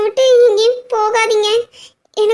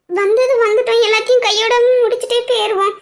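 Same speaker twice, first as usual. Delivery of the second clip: mock repeat; 2 semitones higher than usual. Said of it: "எல்லாரும் சொல்றாங்களா?".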